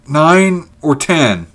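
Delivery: slow, high, loud estimate; uncertain counting. A narrator's reading. Ulrich counting the men on the hill, uncertain counting. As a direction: draw out each number as if counting. Counting distant figures slowly.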